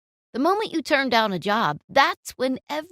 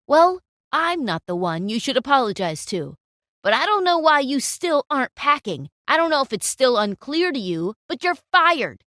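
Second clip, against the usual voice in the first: cold dismissal; 2 semitones higher, 5 dB louder than usual. Acted. Client fires photographer.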